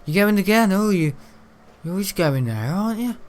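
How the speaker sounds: high sneery cousin voice; mocking cousin. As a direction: imitate his jibe. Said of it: "has a go and says".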